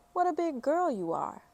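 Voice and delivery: high, sing-song praise from a grown-up; doting adults. Acted. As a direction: coo it like a proud aunt. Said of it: "the adults would say".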